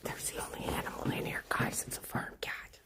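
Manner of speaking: soft unvoiced whisper, keeping it down; hushed whisper inside the barn. Real, not acted. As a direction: whisper so the animals aren't disturbed. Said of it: "Gotta keep my voice down".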